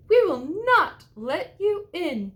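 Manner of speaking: very high squeaky pig voices, loud; little pigs. A narrator's reading. The little pigs refusing the wolf, very high and loud. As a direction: squeal it defiantly. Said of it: "said the little pigs".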